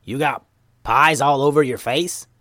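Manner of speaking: put-on voice, puzzled rising question; wondering Momo voice. A narrator's reading. Momo questions the messy ninjas, wondering. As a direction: wonder aloud in a character voice. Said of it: "wondered Momo".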